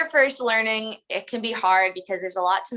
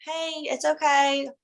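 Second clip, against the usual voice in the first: reassuring; 5 semitones higher, slower than usual. Shown as a demonstration. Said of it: "make them relax".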